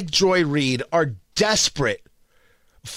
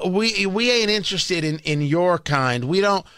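mock Hoosier accent; 3 semitones lower than usual. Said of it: "assume that the people of Indiana speak with that accent, so I went with it".

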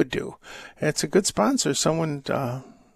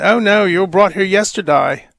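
put-on a light Australian accent, slightly louder; 2 semitones higher, 5 dB louder than usual. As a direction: toss off the punchline in a hint of Australian accent. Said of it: "she replies in her Australian accent".

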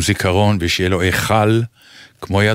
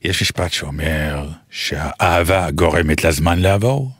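put-on Hebrew with a light French accent; 4 semitones lower than usual. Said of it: "אם תגיד במבטא צרפתי". (מבטא צרפתי בעברית)

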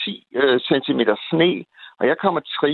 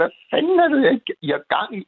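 angry shout; 12 semitones higher, much faster than usual. Retold or imitated. Caller at a police officer in the snow, angry shout. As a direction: bellow it out of the car window, furious. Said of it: "så jeg råbte".

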